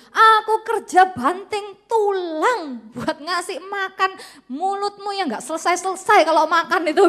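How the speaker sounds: slow, loud, high, biting rant; ranting husband. Acted. Husband berating his wife about what he provides, angry. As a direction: hammer each word like a fed-up provider.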